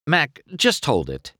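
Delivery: high pleading wait; begging. A narrator's reading. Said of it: "McQueen begged".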